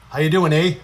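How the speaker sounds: casual Canadian hockey-buddy greeting; mock Canadian accent. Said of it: "I play with a lot of Canadian people".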